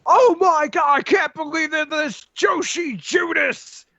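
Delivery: mock commentator losing it; announcer outburst. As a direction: shriek the betrayal like an announcer.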